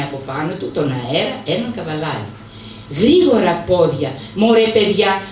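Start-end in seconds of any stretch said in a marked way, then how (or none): 3.0-5.2 mild shout. Acted. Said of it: "φώναξε".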